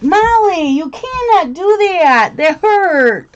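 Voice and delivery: real pained scold. Real, not acted. Cat scratched her shoulder, pained loud scolding. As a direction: scold the cat, still smarting.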